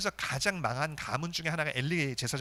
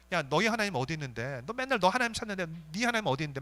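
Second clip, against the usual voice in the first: mocking taunt. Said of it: "막 조롱을 합니다".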